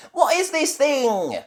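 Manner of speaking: high, loud, slow question; a little confused. A narrator's reading. Nanny Plum seeing the robot, confused. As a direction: puzzle over it aloud. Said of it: "a little confused".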